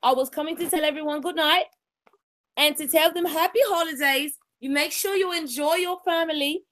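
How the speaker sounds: a lightly voiced elegant lady, unhurried; Lady Elegance voice. Host signs off to stream viewers in a hint of a ladylike voice. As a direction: play a gracious lady bidding the viewers good night, lingering on each wish. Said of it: "in my Lady Elegance voice".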